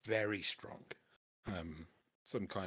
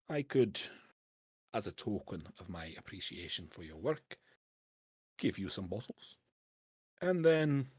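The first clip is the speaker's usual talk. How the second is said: canny Scottish dwarf dealer; 3 dB louder than usual. Acted. Dwarf pitches smuggling bottles to a collector, canny Scottish dwarf. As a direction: sell the scheme in a Scots dwarf voice. Game master voices dwarf.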